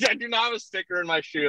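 breaking into a laugh while protesting; giggly denial. Real, not acted. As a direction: laugh it out, high and amused. Laughing mid-protest at friends.

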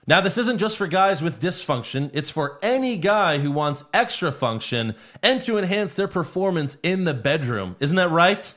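lively pitch, slowing on the web address; ad read. Acted. Host pitches a sponsor to listeners, ad-read style. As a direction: sell it like a podcast sponsor spot.

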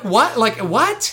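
high, incredulous laughing question; can't believe it, laughing; laughing disbelief. Real, not acted. Incredulous at coach's order.

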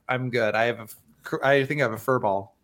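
strained voice after coughing; throat irritation. Real, not acted. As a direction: talk past a tickle in the throat. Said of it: "Are you good?".

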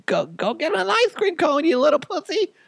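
loud falsetto mother insult; very high, hammed-up mom; joke crude mom. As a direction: taunt in squeaky mock-mom voice. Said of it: "and my mom's like".

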